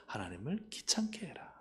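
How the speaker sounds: soft whisper; whispered summary. Real, not acted. Preacher whispering the lesson to the congregation. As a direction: lean in and whisper the point.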